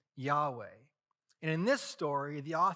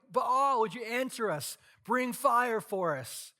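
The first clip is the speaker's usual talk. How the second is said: loud, higher pleading call to a god; desperate crying out; 7 semitones higher, 4 dB louder, slower than usual. Retold or imitated. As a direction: beg the sky for fire, calling out loud. Prophets crying out to Baal.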